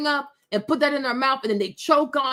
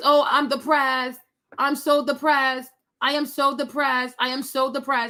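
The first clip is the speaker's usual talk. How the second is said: mock gloomy, droopy, depressed woe-is-me complaining. Mocking a YouTuber who always complains: imitating someone sounding depressed. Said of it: "She's always depressed".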